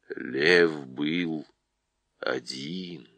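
low, slow, stress on Лев; deep calm voice. Acted. Голос Льва повторяет. (ЛЕВ был один, низко и тихо)

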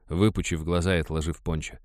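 plain reading voice

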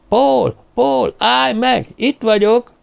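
high, loud call after a friend; yelling for Paul to stop. Acted. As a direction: shout his name across the hillside. Calling after Paul on the path.

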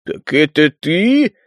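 slow, wary surprise; unpleasantly surprised. A narrator's reading. Ze, startled to meet Sever, slow surprise. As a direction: drag it out, taken aback. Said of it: "неприятно удивился Зе".

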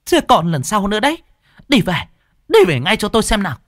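high, fast sharp order; high clipped command; hissing scold. A narrator's reading. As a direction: drag him home snapping. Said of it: "rít lên".

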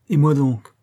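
a joking reply to the woman at his door; laughing tone. Acted. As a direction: toss it back with a laugh in the voice. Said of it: "dit Fouinard d'un ton rieur".

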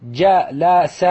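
جلس very slowly as ja-la-sa; each syllable of جلس held apart. Shown as a demonstration. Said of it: "فعل".

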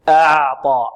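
ع in أعطى sounded with partial flow; medium-flow ayn. Shown as a demonstration. Teacher models the correct letter quality, medium-flow ayn. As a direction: let the ayn of أعطى ring briefly, neither lost nor cut. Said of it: "ونعطيها صفة التوسط".

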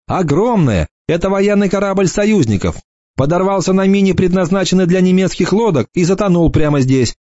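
высокий задорный девичий голос; дразнит, поддразнивает свысока; насмешливая девушка. A narrator's reading. Голос Эммы в рассказе. (Эмма дразнит рассказчика, насмешливый девичий голос)

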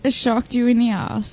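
Australian accent, said for him to copy. Shown as a demonstration. Co-host models her Australian accent for the host. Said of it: "Say it one time for me".

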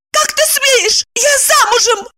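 high, outraged rebuke; be scandalized; indignant. A narrator's reading. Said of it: "возмутилась она".

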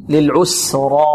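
للعسرى with a thick, velarized را; heavy ra. Shown as a demonstration. Teacher to students on tafkhim, heavy ra. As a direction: fill out the ر at the end of للعسرى. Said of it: "الراء هنا مفخمة".

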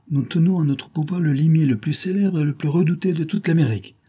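a gloating crook bragging to his prisoner; a hint of a menacing criminal; gang boss Thompson. A narrator's reading.

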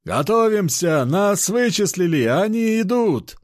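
high, urgent shouted order; commanding shout. Acted. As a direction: bark out the alarm to the troops. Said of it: "приказал командир наёмников".

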